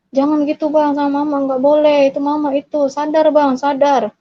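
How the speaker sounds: imploring someone to come to their senses; urgent pleading. Retold or imitated. Pleads with possessed brother to stop.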